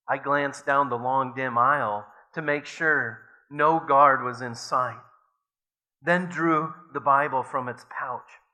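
measured, earnest reading aloud; story reading. A narrator's reading. Preacher reading a memoir to the congregation, earnestly.

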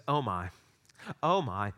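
lightly attempted English accent, low-key; a rough, half-hearted go at a British accent. Imitating English friend reacting to hot sauce, light British accent. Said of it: "In a wonderful British accent".

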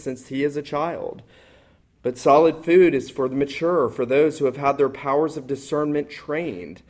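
measured, solemn reading of Scripture. Acted. Preacher reading Hebrews to the congregation, solemn scripture reading.

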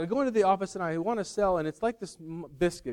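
rough impression of a worked-up salesman; Chris Farley. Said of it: "not gonna do a good Chris Farley impression".

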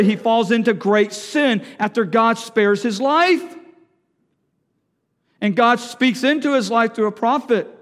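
loud, punched sermon delivery; forceful preaching. Real, not acted. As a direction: press a warning on the congregation. Preaches with raised voice.

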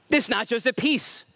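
projected, emphatic declaration. Real, not acted. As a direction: preach it out, nearly yelling. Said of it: "I'm, I'm yelling".

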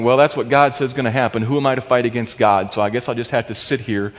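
low, soft, mock woe-is-me; mild mock resignation; resigned self-pity. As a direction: sigh it out like a defeated man. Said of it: "leaning back and saying".

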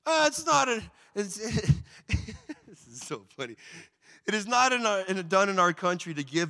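very high, giggling fumbled excuse; father-in-law squirming out of it with a laugh. Acted. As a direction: stumble through the excuse, breaking into laughter. Laban excusing himself, laughing.

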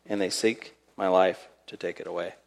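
low, very soft reading; hushed despair. Acted. Elijah alone and hunted, telling the Lord, hushed. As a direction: let the voice sink almost away.

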